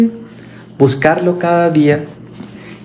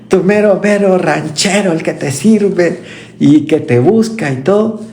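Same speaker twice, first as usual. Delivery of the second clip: playful boast; 4 semitones higher than usual. Retold or imitated. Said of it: "me gusta mucho usar esta expresión".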